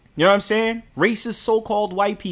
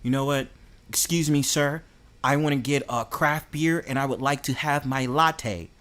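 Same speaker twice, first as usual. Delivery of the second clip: softer, polite mock hipster voice; 3 semitones lower, 5 dB quieter than usual. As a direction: lightly put on a prim hipster ordering. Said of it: "I'm a hipster".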